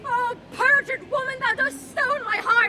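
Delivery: a cry of betrayal breaking into the voice; wounded and furious at once; anguished accusation. Acted. Husband hurling his grief at his wife, anguished.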